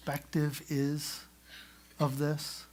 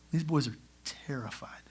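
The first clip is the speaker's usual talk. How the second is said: whispered aside; 3 semitones lower, 6 dB quieter than usual. Real, not acted. Aside about terrified brothers.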